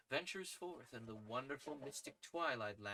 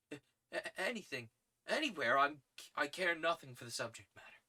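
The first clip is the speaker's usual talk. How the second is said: put-on lightly raised, eager young man; eager young reporter; 4 semitones higher, 5 dB louder than usual. Young reporter accepting any assignment, lightly voiced. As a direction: jump at the chance.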